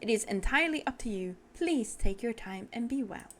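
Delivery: a hint of a patient, formal host; unhurried, mildly put-on gracious manner; lightly voiced courteous tea-seller. Tea-seller leaves the fighter to decide, patient and courteous.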